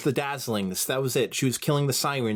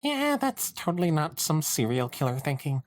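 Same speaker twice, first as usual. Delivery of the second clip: dry sarcastic aside; 6 semitones higher than usual. Acted. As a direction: say it with heavy irony. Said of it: "Sunset thought sarcastically".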